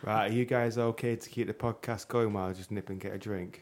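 smooth, even robotic voice; too smooth android. Real, not acted. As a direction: speak like a polished android. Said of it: "why are you speaking like an android?".

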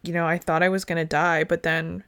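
calm, casual recounting of a near-death attack; matter-of-fact survivor. Retold or imitated. Shark attack survivor telling the story on a show, calm and matter-of-fact. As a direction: imitate someone telling horror matter-of-factly. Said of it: "They're all so calm".

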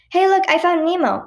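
high-pitched excited call-out; attention-getting call. A narrator's reading. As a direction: call a friend over to look. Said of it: "getting Anelia's attention".

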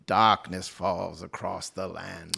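put-on slow, stagey old movie actor; Vincent Price voice. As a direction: draw it out like a horror host. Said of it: "His most famous saying".

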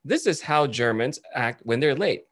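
slow, measured retold skit intro, Germans' turn; imitated TikToker on Germans. TikToker showing how Germans act when late, slow and measured. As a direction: present the Germans slowly and deliberately. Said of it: "And he goes".

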